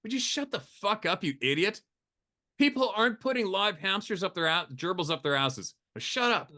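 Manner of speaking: high, mock annoyed telling-off. The speaker scolding a buddy about the gerbil story, mock annoyed. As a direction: snap at a friend, half-hearted. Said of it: "And then I get pissed off"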